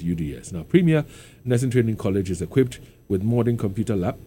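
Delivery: steady radio sponsor announcement; sponsor read. Real, not acted. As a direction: read it out like a news bulletin sponsor credit. Reads the news sponsor message.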